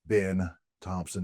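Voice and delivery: podcast host intro, drawing out the guest's name at the end; show announcer. Acted. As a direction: announce a special guest, big opening easing down.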